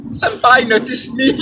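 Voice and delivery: high squealing anime fangirl; overacted anime dub. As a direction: gush like a starstruck anime fan. Gushing fan voice to mentor.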